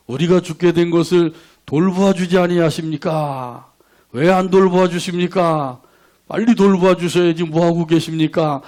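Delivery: mildly acted reproach; complaining appeal, lightly dramatized; resentful prayer. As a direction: press the questions with a touch of grievance. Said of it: "원망의 기도를 드렸어요".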